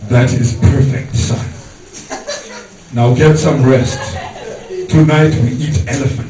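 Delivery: a hint of a solemn father; stern dad. Father congratulating his son, low and solemn. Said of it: "He's like".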